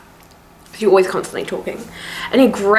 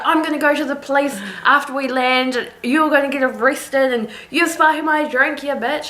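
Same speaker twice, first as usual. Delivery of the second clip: higher, blustering threat; lightly voiced angry passenger; mock threatening drunk; 4 semitones higher than usual.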